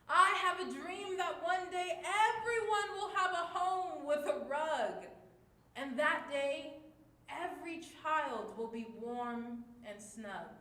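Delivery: loud, high and full of hope; hopeful and excited. Shown as a demonstration. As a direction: dream out loud for the class. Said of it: "using all of our different emotions".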